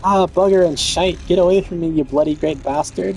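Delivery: put-on rough British accent, cursing; gruff British accent. Kid's rescuer cursing at a crab, British accent. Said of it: "Why do they say that like a, that kind of accent?".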